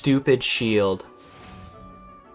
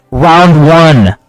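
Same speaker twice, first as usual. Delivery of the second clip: very loud, raised-pitch yell; exasperated shout; 4 semitones higher, 15 dB louder than usual. Real, not acted. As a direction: belt it out in exasperation. Yelling about the bow's timing.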